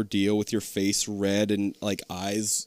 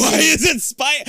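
surprised; 7 dB louder, slower than usual. Retold or imitated. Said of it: "I think that might be exactly what I said".

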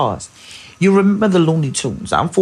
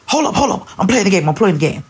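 put-on higher, dismissive gamer kid; gamer son brushing off; 5 semitones higher, faster than usual. Son busy on Fortnite waving off his mother, dismissive. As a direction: brush mom off mid-game. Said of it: "So he's in Fortnite mode".

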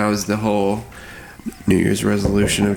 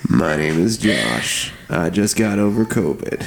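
low unhurried voice. Acted. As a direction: lay on the low, sultry host voice. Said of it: "so I sound a little low".

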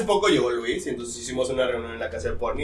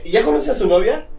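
imitating mom; 8 semitones higher, 3 dB louder than usual. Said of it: "y me dice".

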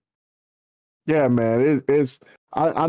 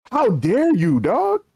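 1 incredulous; 5 semitones higher, slower than usual. Real, not acted. Outraged retelling of coffee snub.

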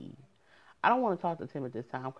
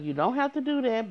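higher, louder protest; insistent refusal; 7 semitones higher, 4 dB louder than usual. Retold or imitated. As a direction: brush it off emphatically. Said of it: "I was like".

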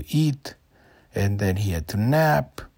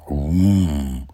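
yak grunt; 5 semitones lower, 5 dB louder than usual. A narrator's reading. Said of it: "And the yak went".

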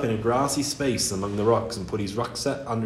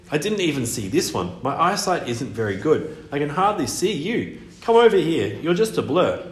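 mermaid voice; 4 semitones higher than usual. Acted. Mermaid voice held.

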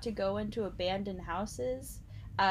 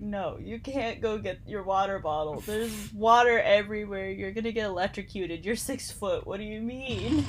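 droning teacher impression; 3 dB louder than usual. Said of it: "the teacher was like".

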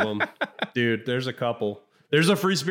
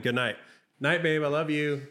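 pillow talk; 3 dB quieter than usual. Real, not acted. Saying good night to toddler.

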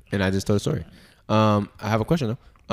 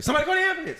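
very high-pitched imitated cry for help; re-enacted alarmed yell, high but not full volume; retold urgent call; much faster than usual. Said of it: "I'm saying, I got loud".

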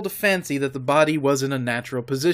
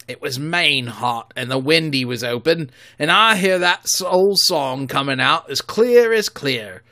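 pirate telling a ghost tale; 4 dB louder than usual. Acted. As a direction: spin the dread of Flint's song. Another pirate recalls.

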